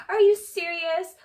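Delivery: high, drawn-out disbelief, acted out; mock incredulous. Raquel challenging Schwartz for checking on Katie, mock incredulous. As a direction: imitate someone aghast, pitched well up. Acted indignant retort in retelling.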